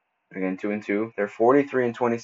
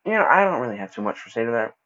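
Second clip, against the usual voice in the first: stumbling over the words; stuttering; 2 semitones higher than usual. Real, not acted. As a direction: trips and restarts mid-sentence. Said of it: "Sorry, I keep stuttering".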